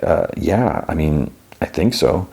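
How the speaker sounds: mildly hesitant, feeling for the answer; hesitant reply. Retold or imitated. Jonathan asked if he can work it, mildly hesitant. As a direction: imitate an unsure, halting yes. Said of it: "he kinda hesitates".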